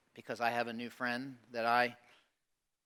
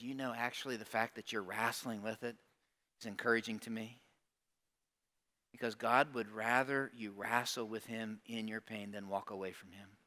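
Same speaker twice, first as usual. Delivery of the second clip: much softer, tender reassuring words; gentle reassurance; 3 semitones lower, 4 dB quieter than usual. Retold or imitated. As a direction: comfort a struggling friend gently. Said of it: "and I said".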